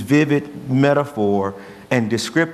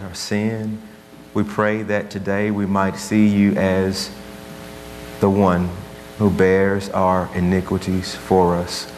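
prayer; 2 semitones lower than usual. Acted. Pastor praying over his church, earnest prayer voice. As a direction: pray over the congregation, unhurried. Opening prayer before sermon.

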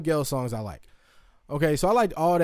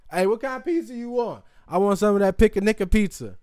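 higher, fast customer ordering; pretend customer; 6 semitones higher, 4 dB louder, faster than usual. Host acting a customer ordering the pizza, higher and quick. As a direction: play a guy ordering at the counter. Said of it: "before you just wanna say".

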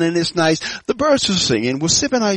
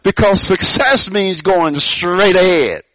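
slow emphasis; slower than usual. Shown as a demonstration. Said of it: "Church, are you hearing this at all?".

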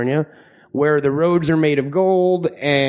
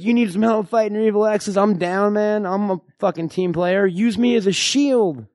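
higher-pitched mock-eager quote; imitating eager teammate; 4 semitones higher than usual. Host imitates his co-host volunteering to fight, higher-pitched mock-eager voice. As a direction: lightly act out a game sidekick offering help. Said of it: "You're like".

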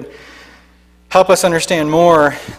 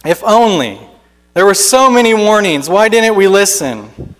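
begrudging exclamation; 4 semitones higher, 3 dB louder than usual. Acted. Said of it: "begrudgingly they exclaim".

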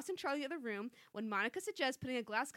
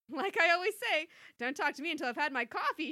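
nervous cry; 4 semitones higher, 6 dB louder than usual. Acted. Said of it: "she cried nervously".

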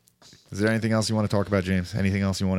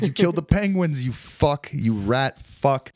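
higher, heated mock accusation; mock scolding in a raised voice; angry activist rant; 5 semitones higher, slower than usual. Activist yelling at the penguin killer, mock angry. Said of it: "they're gonna be like".

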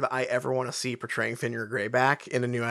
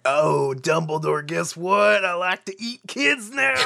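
mock villain; 2 semitones higher than usual. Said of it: "being like".

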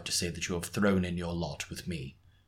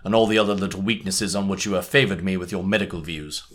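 louder, amused, through laughter; laughing Holmes; 3 semitones higher, 10 dB louder than usual. A narrator's reading. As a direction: tease him while still laughing. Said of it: "burst into a hearty fit of laughter".

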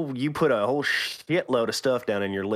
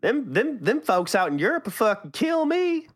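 hammed-up Texas boy twang; Texan accent; 6 semitones higher than usual. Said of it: "the voice makes it sound like I am".

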